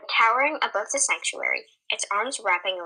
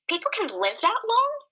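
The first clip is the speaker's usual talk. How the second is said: high, startled disbelieving question; confused cry; 12 semitones higher, 3 dB louder than usual. Acted. Autumn to Arminix, a high confused cry. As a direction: Autumn cries out, shocked at the age. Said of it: "Autumn cried".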